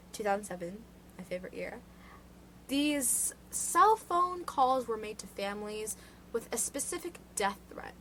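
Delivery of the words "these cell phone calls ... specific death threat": measured, serious news anchor read; newscaster voice. Real, not acted. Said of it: "why do I sound like a newscaster".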